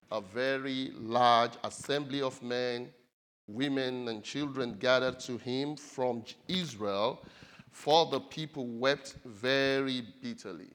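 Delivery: slow, loud, emphatic Bible reading; scripture reading. Acted. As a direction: proclaim the passage slowly, punching the key words. Reads scripture aloud to congregation.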